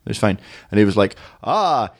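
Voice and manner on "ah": slow, high, sing-song mock of a street tout listing English clichés; imitating a Tunisian tout. Tunisian tout reeling off English clichés to tourists, slow and high mock voice. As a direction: drag out each cliché, pitched up and hammed.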